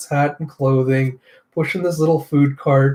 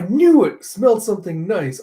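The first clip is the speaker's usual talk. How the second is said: slipped take; 6 semitones higher than usual. Acted. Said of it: "I was like".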